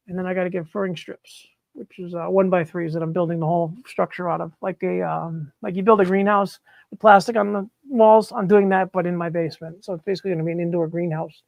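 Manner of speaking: muffled behind a face mask; speaking through a mask, muffled; talking through a mask. Real, not acted. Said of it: "I'm talking through a mask".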